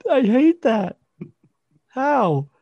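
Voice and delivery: very high protest through laughter; real laughing fit. Real, not acted. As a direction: beg them to stop while cracking up. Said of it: "When I just laugh there".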